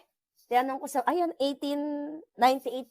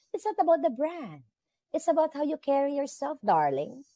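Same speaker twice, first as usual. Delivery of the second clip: sassy diva; 4 semitones higher than usual. Acted. Sassy diva advice to viewers.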